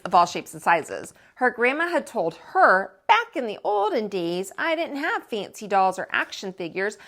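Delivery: lively, expressive read-aloud voice; story narration. A narrator's reading. Teacher reading a picture book to children, lively storytelling. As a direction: read it like to a class of kids.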